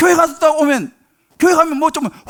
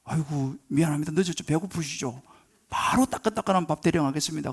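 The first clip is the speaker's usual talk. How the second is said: imitating a sweet wife; 8 semitones lower, 9 dB quieter than usual. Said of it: "교회 갔다 오더만은".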